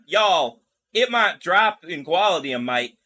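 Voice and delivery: put-on botched Southern woman's accent; wobbly Southern-turned-Australian accent; Southern accent slipping Australian. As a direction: try a Southern twang that keeps turning Australian. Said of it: "she's still turning Australian".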